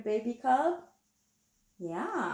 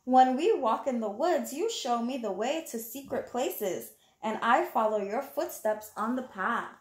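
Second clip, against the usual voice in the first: put-on reading to children. Reading the picture book aloud.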